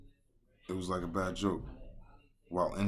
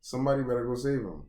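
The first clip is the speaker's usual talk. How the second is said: mock crew member; 6 semitones higher, 7 dB louder, faster than usual. Crew member mocking the rescue.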